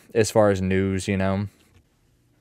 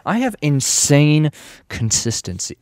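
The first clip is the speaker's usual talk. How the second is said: mock brag; 5 semitones higher, 5 dB louder than usual. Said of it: "mock brag".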